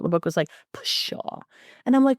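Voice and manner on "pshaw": soft, voiceless puff of scorn; scoffing dismissal. Retold or imitated. Book mocking the author's proud guess, scoffing. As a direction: brush it off with a whispery scoff.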